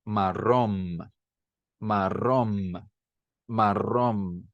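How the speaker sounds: marrón with rolled r ending in closed lips m; Spanish pronunciation. Shown as a demonstration. Teacher showing native speakers saying marrón with final m. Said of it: "é bilabial".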